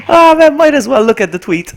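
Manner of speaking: high, loud, breaking into laughter; laughing dismay. Real, not acted. Streamer gives in and checks the tweet, laughing dismay. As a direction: wail it through a laugh. Laughing after losing the game.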